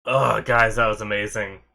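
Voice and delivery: stuffy nose after crying; blocked nose. Real, not acted. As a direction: speak through a blocked nose. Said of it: "I'm, like, all stuffy now".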